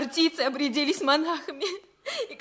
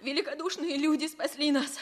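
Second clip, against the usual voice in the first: crying. Acted. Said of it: "Не плачь".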